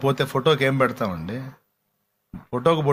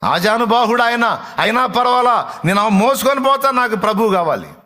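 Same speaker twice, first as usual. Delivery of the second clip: high, loud, determined outcry; preacher voicing a desperate woman's resolve; acted impassioned insistence; 8 semitones higher, 4 dB louder than usual. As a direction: insist at the top of the register. Voices Mary's determined outcry.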